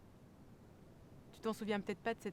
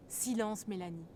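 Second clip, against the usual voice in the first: sharp, louder call for silence; imitating father's order; 4 dB louder, slower than usual. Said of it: "tu lui disais deux choses".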